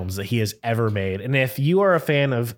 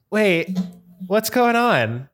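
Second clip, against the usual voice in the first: high, puzzled retold reaction; mock confusion; 7 semitones higher, slower than usual. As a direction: act out baffled surprise. Retells his confusion reading the text.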